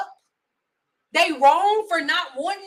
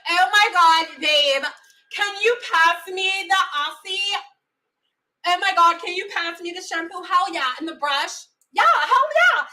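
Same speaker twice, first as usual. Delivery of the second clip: white girl impression. Mocking Sally asking for shampoo, bubbly white girl. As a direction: play a carefree white girl. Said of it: "Sally can be like".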